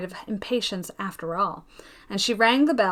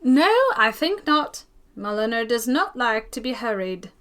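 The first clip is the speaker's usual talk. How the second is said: put-on fussy old lady; 4 dB louder than usual. Mrs Jameson refuses, fussy.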